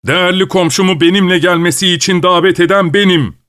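high shouted retort; shouting. Acted. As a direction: shout back at the host. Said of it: "diye bağırdı Pavel Martinoviç".

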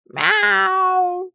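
high, yowling meow; cat yowling for attention. A narrator's reading. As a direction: yowl like an upset cat. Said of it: "раздался кошачий вопль".

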